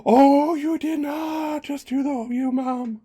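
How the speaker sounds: very high, drawn-out theatrical outrage; outraged shriek. Acted. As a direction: squeal it out slowly, scandalized. Sister outraged at being called Mom.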